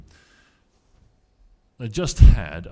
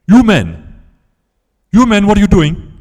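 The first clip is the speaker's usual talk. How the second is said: high, loud, plummy lady scolding the men; posh well-spoken lady; 12 semitones higher, 13 dB louder than usual. Retold or imitated. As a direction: play a very proper lady catching them out. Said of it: "terribly, terribly well-spoken, uh, lady".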